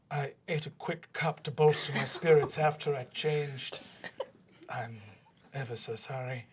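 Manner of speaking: lightly voiced stiff elven father, solemn and archaic; a hint of a courtly father; formal elf father. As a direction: speak as a proud old elf lord offering thanks.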